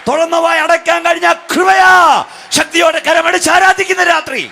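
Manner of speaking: high, loud shouted preaching; preaching at full force. Acted. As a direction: cry it out to the congregation. Preacher builds to climax.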